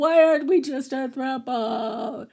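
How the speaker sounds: slow, drawn-out pleading wail; hammed-up tearful lament; mock crying. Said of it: "Jean just shows up and cries".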